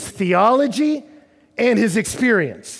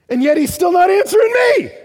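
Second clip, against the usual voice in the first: a desperate shout of protest; preacher voicing the psalmist's shout at silent God; anguished outcry; 8 semitones higher, 6 dB louder than usual. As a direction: cry it out loud and high at God.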